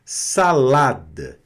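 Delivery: salada slowly, clean open A's; pure A. Shown as a demonstration. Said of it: "O A tem sempre essa pronúncia mais limpa". (salada com A puro, devagar)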